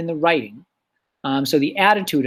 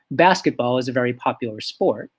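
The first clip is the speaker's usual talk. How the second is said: lower, measured formal statement; formal, proper; 4 semitones lower than usual. Shown as a demonstration. Teacher showing formal language to class, proper delivery. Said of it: "in a very formal, proper way".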